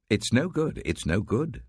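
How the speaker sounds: lightly voiced grumbling buyer, high start; a hint of a haggling customer. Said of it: "says the buyer".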